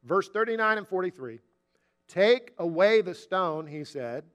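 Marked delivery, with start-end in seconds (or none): 2.1-3.7 slow, deliberate command. Retold or imitated. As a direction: give the order slowly, word by word. Quoting Jesus' command at grave.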